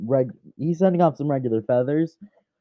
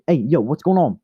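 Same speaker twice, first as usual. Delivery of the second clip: brash, louder hype greeting; louder demeanor; 3 semitones higher, 3 dB louder than usual. Shown as a demonstration. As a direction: show off a bolder, livelier voice. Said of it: "change into a very much more louder demeanor".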